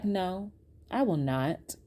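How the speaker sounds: slow, softened retold refusal; quiet refusal.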